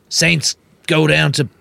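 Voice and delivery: Super Rugby commentator. Acted. Co-host riffing on Saints versus Bears, mock commentary. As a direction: draw it out like a match caller. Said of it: "It's like Super Rugby".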